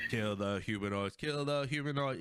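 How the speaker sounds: flat robotic chant. Retold or imitated. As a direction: say it like a classic robot. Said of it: "classic robot voice".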